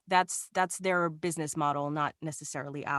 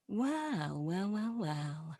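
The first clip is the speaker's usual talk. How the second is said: villain voice; 6 dB louder than usual. Acted. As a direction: savor each word like a gloating monster. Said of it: "my quintessential villain voice here".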